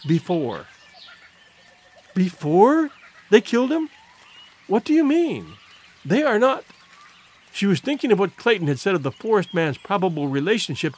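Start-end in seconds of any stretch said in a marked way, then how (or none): 2.1-2.9 "before" echoed as a startled question, rising; "before" lifted into a disbelieving question. A narrator's reading. She echoes the word in alarm. 3.3-6.6 high-pitched, disbelieving questions; acted alarm, voice lifted high; dreading the answer, pitch raised; alarmed questioning. A narrator's reading. Horrified questioning in story dialogue.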